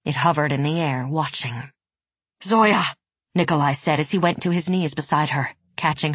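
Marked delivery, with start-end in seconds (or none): 2.4-2.8 calling her name in alarm; urgent shout. Acted. Calls to collapsed Zoya.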